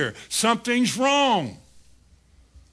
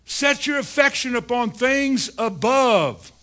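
slow exhortation; 3 semitones higher, slower than usual. Acted. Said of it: "he said".

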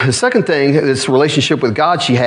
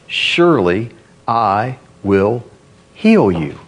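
slow, low, deliberate pronouncement; solemn promise; 4 semitones lower, slower than usual. Acted. Preacher voices God's promise to Hezekiah, solemn and low. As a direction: space out the promise, dropping low at the end.

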